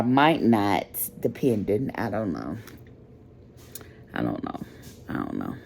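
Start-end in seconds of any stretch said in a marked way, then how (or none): 1.9-5.5 fading sigh. Real, not acted. Fading out, tired and low.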